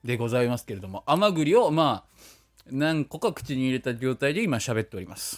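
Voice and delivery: talking with cheeks stuffed full. Real, not acted. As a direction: mouth full of chestnuts.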